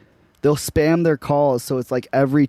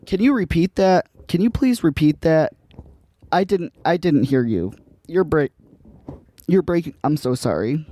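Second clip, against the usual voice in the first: feigned confusion; 4 semitones higher than usual. Retold or imitated. Stalling a scammer, playing dumb.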